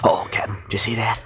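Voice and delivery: hushed urgent whisper to the captain. Acted. Skip whispers to the captain while sneaking near the cabin. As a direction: breathe it so no one inside hears.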